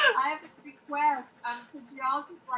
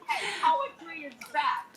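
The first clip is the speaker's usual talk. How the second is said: excited laughing cheer; 5 semitones higher than usual. Real, not acted. Poet cheering that poetry is back, laughing with delight.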